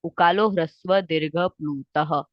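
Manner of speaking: slow, measured chanting of the sutra; sutra recitation. Shown as a demonstration. Teacher reciting the sutra for students to learn, slow and measured. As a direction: recite it so they can memorise it. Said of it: "आपको ये सूत्र".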